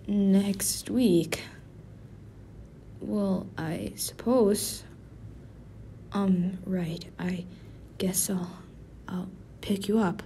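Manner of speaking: soft, slow and hesitant; shy whisper. Acted. Agreeing to a date with her coworker, a shy whisper. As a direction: mumble the yes under your breath.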